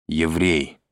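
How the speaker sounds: a short answer with a touch of distaste; disgusted. A narrator's reading. Izya answers the interrogator's question on nationality, disgusted. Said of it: "сказал Изя с отвращением".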